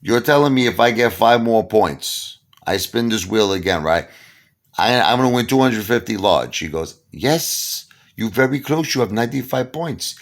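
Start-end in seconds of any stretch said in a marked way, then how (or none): 0.0-6.6 incredulous. Retold or imitated. Disbelieving question to the guy. 7.1-10.1 casino hustler. Retold or imitated. Pablo voiced high.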